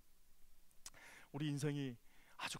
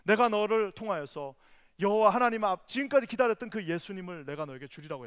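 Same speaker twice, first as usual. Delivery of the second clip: divine call; 4 semitones higher, 12 dB louder than usual. Acted. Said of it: "마리아가".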